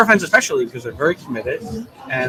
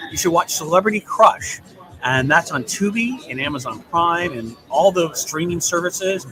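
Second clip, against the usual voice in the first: upbeat promo announcer. Pretend. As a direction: read it like a TV ad. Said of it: "here's my announcer voice".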